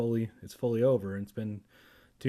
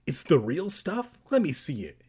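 mildly raised, eager question into demand; 3 semitones higher than usual. Acted. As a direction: ask with a touch of eagerness. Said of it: "he demanded eagerly".

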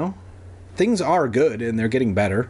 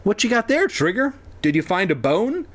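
dad talking to dog; 8 semitones higher than usual. Acted.

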